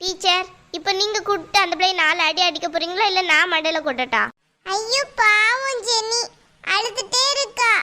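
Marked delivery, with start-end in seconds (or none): 4.6-7.7 put-on slow, stretched child-like sympathy; drawn-out pity. Pupil pities crying Jeni, slow drawn-out sympathy. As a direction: draw out each word pityingly.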